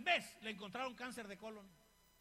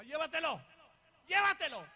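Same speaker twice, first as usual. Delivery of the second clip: rising, louder repeated entreaty; retold prayer plea; 4 semitones higher, 10 dB louder than usual. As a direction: plead with God, stronger the second time. Retold anguished prayer to God.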